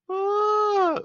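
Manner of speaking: very high amused squeal; shrieking ah of amusement. Real, not acted. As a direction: let out a high squeal of delight. Reacting to a funny comment.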